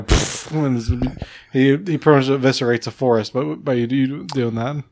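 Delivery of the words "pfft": a short spat blast; mock cannon pfft; cannon blast noise. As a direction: imitate the chest cannon firing. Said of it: "he's just gonna go".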